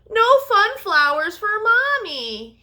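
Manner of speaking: high, loud tearful wail; understated childish wailing; mild wail. Acted. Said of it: "he wailed".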